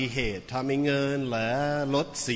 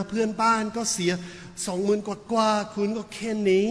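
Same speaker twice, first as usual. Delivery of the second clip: arguing landlady; 8 semitones higher, slower than usual. Retold or imitated. Landlady argues the rent.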